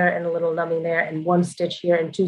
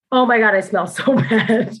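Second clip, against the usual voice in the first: laughing; 4 semitones higher than usual. Retold or imitated. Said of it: "being like".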